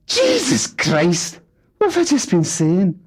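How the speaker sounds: very high, loud, strained outrage; father shrieking denial at family; outraged denial. Acted. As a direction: explode in wounded defence. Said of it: "was too much for Fat Alan".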